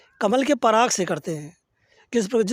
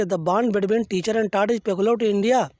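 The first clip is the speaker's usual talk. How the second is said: slow, weighty English quote; slow deliberate quote; much slower than usual. Acted. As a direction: read each word out slowly. Quotes Vivekananda slowly in English.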